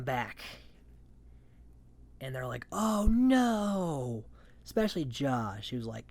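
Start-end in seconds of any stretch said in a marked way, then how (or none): 2.7-4.2 high, louder yelp of alarm; mock gasp of dismay; mock panic. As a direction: squeal it in fake alarm. Houseguests react to returning player.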